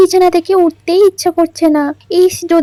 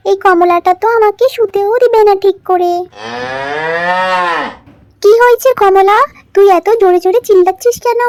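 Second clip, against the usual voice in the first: lightly voiced girl; 2 semitones higher than usual. Riya checks on the cow, lightly voiced girl. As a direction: lightly play the older daughter.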